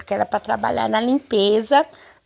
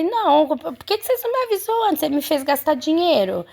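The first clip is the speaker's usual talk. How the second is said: higher-pitched indignant protest; mock-angry retort in a raised pitch; retold indignation; 5 semitones higher than usual. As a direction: complain crossly, pitch jumping up, volume unchanged. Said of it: "eu fiquei tão brava".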